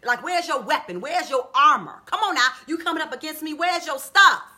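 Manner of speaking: Goliath's challenge. Retold or imitated. Goliath taunting unarmed David, challenging. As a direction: demand it with mounting disbelief. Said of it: "he's saying".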